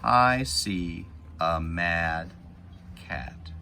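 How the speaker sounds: put-on slow, clear read-aloud for kids; deliberate storybook reading; reading to children. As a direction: read each word slowly as you point. Reading picture book to kids.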